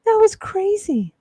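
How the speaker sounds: high, loud, giggly exclamation; amused after laughing. Real, not acted. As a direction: say it high, fresh out of a laughing fit. Coming out of laughing fit.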